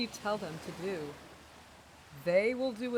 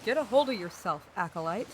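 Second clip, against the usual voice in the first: stern scolding; 6 dB louder than usual. Acted. Captain scolds acolyte.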